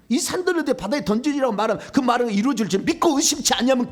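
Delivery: high, insistent pulpit declamation; urgent, high-pitched proclamation; forceful scripture quoting. Real, not acted. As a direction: drive the verse home from memory. Declaims the verse again.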